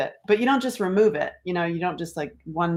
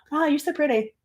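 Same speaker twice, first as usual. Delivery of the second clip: typical compliment; 4 semitones higher, faster than usual. Retold or imitated. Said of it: "you know, the typical, like".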